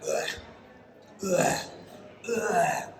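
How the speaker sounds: mock retching grunts; a hint of Gollum hacking; Gollum-like retching ugh. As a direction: cough it up like Gollum. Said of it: "a bit like Gollum".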